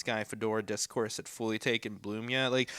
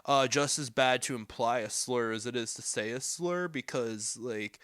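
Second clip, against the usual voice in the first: lightly voiced bro dude; a hint of a bro impression; frat bro; 2 semitones lower, 4 dB quieter than usual. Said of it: "I'm doing a bro voice for him".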